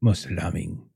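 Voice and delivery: unsettled French parent. Acted. French parent asking about a rich man's treasures, tentative.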